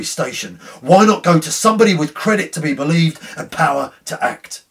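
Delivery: frantic, rising anguish, loud and high by the end; feverish distress. A narrator's reading. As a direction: cry out against the ghost in desperation. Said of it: "in an extremity of feverish distress".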